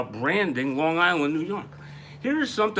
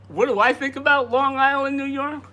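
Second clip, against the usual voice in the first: put-on Long Island accent; 10 semitones higher, 3 dB louder than usual. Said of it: "enough of the Long Island accent".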